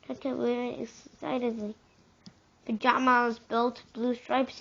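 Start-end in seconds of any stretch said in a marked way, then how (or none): 2.7-4.6 excited cry. Acted. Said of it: "he cried".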